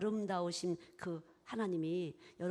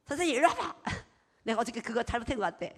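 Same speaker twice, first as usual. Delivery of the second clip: calling out sharply; 4 dB louder than usual. Retold or imitated. Wife calling husband over to scold him, loud. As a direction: summon him, then scold. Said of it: "막 이렇게 돼요".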